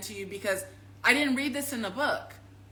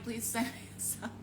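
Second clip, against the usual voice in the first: quieter, fading please; softer plea; 8 dB quieter than usual. Retold or imitated. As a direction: let the second plea fall away soft.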